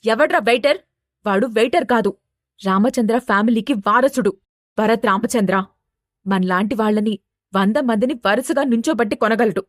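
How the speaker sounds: understated angry scolding; narrator's restrained version of a furious father; angry shout. Acted. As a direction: scold with mild, acted anger. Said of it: "కోపంగా అరుస్తూ".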